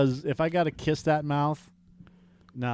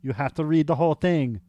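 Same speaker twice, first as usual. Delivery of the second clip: mock German accent, correcting him; hammy, particular German-accented scolding; Tim voice; 4 dB louder than usual. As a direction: lay down the rules in a fake German accent. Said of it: "I have to do the Tim voice".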